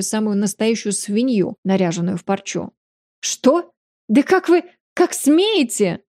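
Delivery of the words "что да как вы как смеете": yelling outrage. A narrator's reading. Lady Mansera yells at the duke's refusal, furious. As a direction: scream it as a furious matron. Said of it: "заорала леди Мансера".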